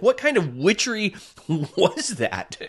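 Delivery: high, slow, laughing disbelief; laughing amazement. Retold or imitated. To the healer, laughing slow amazement. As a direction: laugh through the question.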